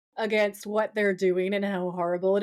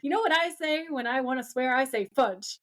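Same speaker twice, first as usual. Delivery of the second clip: higher-pitched prim scolding; playful reproach, pitched up; mock scolding; 4 semitones higher than usual. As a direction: scold lightly, like a prim housewife. Voicing Madge's sweet scolding.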